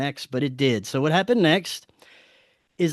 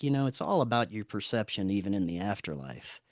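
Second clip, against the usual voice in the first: low, soft voice from the sky; hushed, calm retold revelation; otherworldly voice; 6 semitones lower, 9 dB quieter than usual. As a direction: quote it quietly, sinking lower as it ends. Voice from the sky speaks to him.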